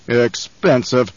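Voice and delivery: slow, drawn-out sneer. Acted. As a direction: sneer the word out slowly. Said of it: "the Baron sneered".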